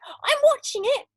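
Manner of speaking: high, loud call; grandma shouting from the roof; shout back. Acted. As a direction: holler down to the boy. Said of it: "the old girl shouted back".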